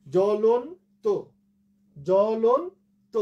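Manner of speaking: জ্বলন্ত stretched as jo-lon-to, lon rising; slow model pronunciation. Shown as a demonstration. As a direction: teach জ্বলন্ত syllable by syllable, drawn out. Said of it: "এই শব্দের ভুল উচ্চারণ আর না করি". (জ্বলন্ত ভেঙে ভেঙে টেনে উচ্চারণ)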